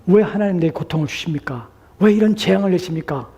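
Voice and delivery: protesting outcry, pitch climbing; crying out in protest. Acted. Pharaoh demanding of God why he suffers, crying out. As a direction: cry out a complaint, rising as it goes. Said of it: "라고 외쳤을 것입니다".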